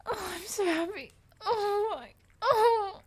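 high, teary and broken; high tearful sobs of happiness; happy crying. Acted. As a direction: cry with relief.

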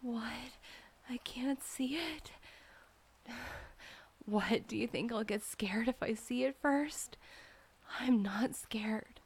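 ordinary delivery

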